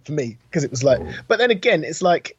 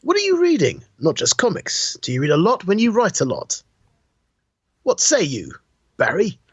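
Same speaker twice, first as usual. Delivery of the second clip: mock Thor; 3 semitones higher than usual. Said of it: "that Thor sheet you're trying to pull".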